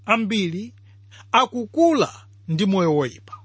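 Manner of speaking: ordinary talk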